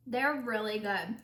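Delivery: talking through a bite of cookie; mouth full. Real, not acted. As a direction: cheeks stuffed full of cookie. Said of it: "My mouth is full 'cause I took a second bite".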